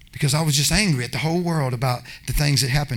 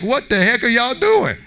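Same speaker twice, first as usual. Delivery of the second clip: startled protest; 5 semitones higher than usual. Retold or imitated. Being dragged out of bed.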